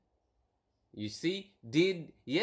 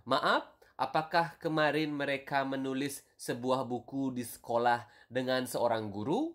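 careful model reading. Shown as a demonstration. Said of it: "the normal version would be".

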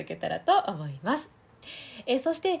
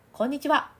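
higher hello ringing in the nose; nasal resonance; 6 semitones higher, 5 dB louder than usual. Shown as a demonstration. Voice coach demoing nasal resonance against mouth resonance. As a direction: send the sound up into the nose. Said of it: "鼻腔の響きを使うと".

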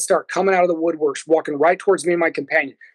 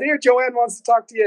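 imitated woman; 5 semitones higher than usual. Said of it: "And she said".

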